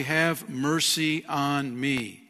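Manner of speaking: slow, drawn-out plea for mercy; pleading cry. Retold or imitated. Blind beggar pleading slowly with Jesus for mercy. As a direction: beg slowly, like a blind man calling out. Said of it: "here we have Bart's cry".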